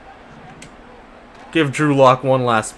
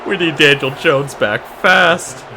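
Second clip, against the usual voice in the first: exasperated plea; 4 semitones higher, 4 dB louder, slower than usual. Real, not acted. Repeats plea louder after interception.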